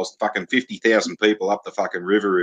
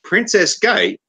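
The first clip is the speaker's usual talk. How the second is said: much higher, louder disbelief; incredulous taxi driver; 4 dB louder than usual. Retold or imitated. Taxi driver baffled by the destination, in loud high disbelief. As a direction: squawk it in shocked disbelief. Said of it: "he's like".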